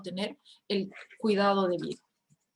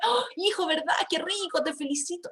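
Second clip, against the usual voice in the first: empathetic praise; 6 semitones higher than usual. Shown as a demonstration. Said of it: "cuando yo soy empático y siento".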